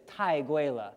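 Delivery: 太贵了 said as tài guì le, falling tones; showing how to haggle with 太贵了; Chinese phrase. Shown as a demonstration. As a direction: demonstrate 太贵了 for the children to copy. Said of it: "it goes like this".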